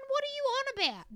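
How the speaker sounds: high-pitched baffled challenge; mock incredulity. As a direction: question an absent TV host in exaggerated bafflement. Scolds TV host in mock address.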